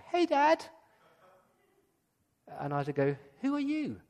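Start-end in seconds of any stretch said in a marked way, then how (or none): 0.0-0.6 Hey, Dad. squeaked up high; high-pitched voice. Shown as a demonstration. Jacob greeting his blind father in a high voice. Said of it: "Probably in a high-pitched voice". 3.4-4.0 put-on suspicious old man. Blind old father questioning son.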